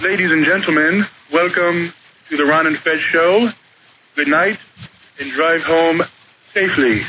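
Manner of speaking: lightly voiced ballpark PA announcer; Bob Shepard impression. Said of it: "That wasn't a bad Bob Shepard".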